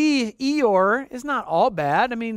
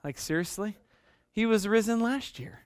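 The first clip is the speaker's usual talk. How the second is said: weary Eeyore; 7 dB quieter than usual. Retold or imitated. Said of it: "where you're just like".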